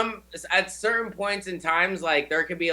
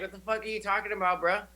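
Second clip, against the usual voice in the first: laughing disbelief; 4 semitones higher, 6 dB quieter, faster than usual. Retold or imitated. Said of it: "I was like".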